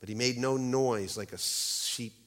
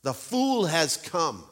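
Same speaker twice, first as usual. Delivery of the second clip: fierce witch voice; 3 semitones higher, 3 dB louder, much slower than usual. Acted. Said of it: "gave a wild, fierce laugh".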